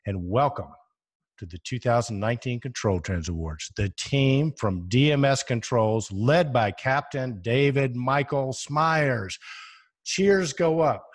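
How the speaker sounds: slow, drawn-out stadium announcer intro; football announcer voice. Pretend. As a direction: announce it big, like a game-day emcee. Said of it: "imagine the voice going".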